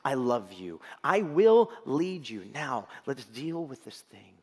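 slow, firm and loving; fatherly voice of God. Acted. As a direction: lead them gently like a father. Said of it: "who's looking at you and saying".

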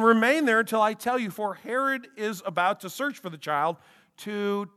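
measured formal Bible reading; scripture reading. Acted. Pastor reading Matthew to the congregation, formal scripture reading. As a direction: read the verses out to the congregation. Reads Matthew chapter two aloud.

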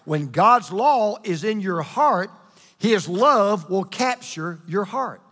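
slow, weighty phrasing; really slow. Shown as a demonstration. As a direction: read it out slowly with a pause between halves. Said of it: "I wanna say it really slow".

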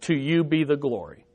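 soft reverent response, voice dropped; whisper-soft praise to God; hushed prayer. Real, not acted. Quiet doxology after each statement.

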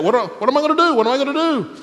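imagine being at a loss what to do; desperate. Acted. Imagines David fleeing, at a loss.

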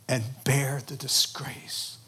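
"bear the disgrace" soft and slow. Acted. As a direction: let "bear the disgrace" sink slowly, hushed. Solemn hushed close.

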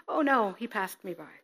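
mild dismay. Acted. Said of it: "You're the priest".

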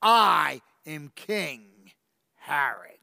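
slow, whispered royal claim; menacing whisper. Acted. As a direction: breathe your name like a threat.

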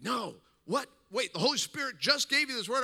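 eager, can't believe it; excited disbelief. Retold or imitated. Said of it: "He's like".

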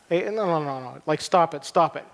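lightly acted brisk scolding; playfully impatient shushing; mock dismissive. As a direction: wave off the tears with a mock telling-off. Imagined brisk telling-off of mourners.

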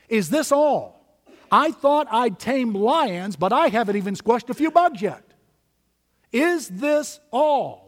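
slow, drawn-out searching question; disillusioned questioning. Acted. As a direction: press the question slowly, weighing each word. Voicing disillusioned believers' question.

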